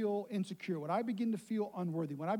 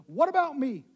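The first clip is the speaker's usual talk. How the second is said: put-on little boy pleading; 6 semitones higher, 9 dB louder than usual. Child seeking appraisal, retold.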